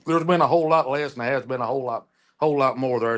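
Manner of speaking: talking with mouth full; chewing between words; eating chicken fingers. Real, not acted. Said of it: "Excuse me, I'm eating chicken fingers".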